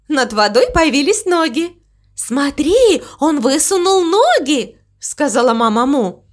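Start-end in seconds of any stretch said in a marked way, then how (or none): 2.1-4.8 high, amazed cow voice; excited pointing out. Acted. Mama Mu points the crow to the legs, high and excited. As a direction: call attention in high delight.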